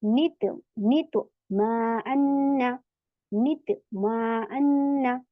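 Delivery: slow chanted recitation, syllable by syllable; teacher slowly chanting the rule in action; Quranic recitation. Shown as a demonstration. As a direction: stretch out नितमअन्ना slowly, chanting it. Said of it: "तो वैसे ही apply करेंगे".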